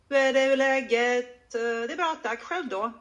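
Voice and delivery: everyday Swedish phrases, modelled clearly; a teacher's natural Swedish model; natural Swedish phrasing. Shown as a demonstration. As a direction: demonstrate basic Swedish phrases as they should sound. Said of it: "make it sound like this".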